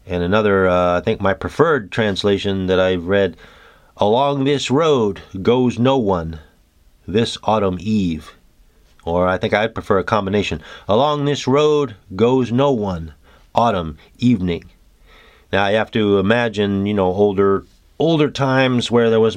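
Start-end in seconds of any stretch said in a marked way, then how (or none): 4.0-8.4 slow, measured poem reading; slow contemplative recitation; haiku reading. Acted. 10.9-14.6 haiku reading. Acted.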